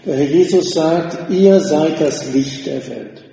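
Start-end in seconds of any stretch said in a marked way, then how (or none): 1.3-3.2 „Ihr“ carries the weight, rest follows slowly; stress on Ihr. Shown as a demonstration. Preacher quoting Jesus to the congregation, emphasis on „Ihr“. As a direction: lean slowly on „Ihr“, the first word. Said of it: "die Betonung liegt auf diesem ersten Wort".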